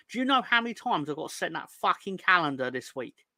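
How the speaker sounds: fed up and trying to stay calm; worked-up exasperation. Real, not acted. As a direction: vent your exasperation, pitch lifted. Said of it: "I've got to calm down when I say this".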